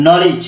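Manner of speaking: "নলেজ" opening straight on an N sound; silent K. Shown as a demonstration. Teacher repeats the example after the rule, "নলেজ" with silent K. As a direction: model "নলেজ" with the K left silent. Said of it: "এর মতন উচ্চারণ হবে".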